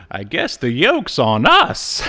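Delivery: cheesy one-liner. Retold or imitated. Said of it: "with his, like, awesome one-liners goes".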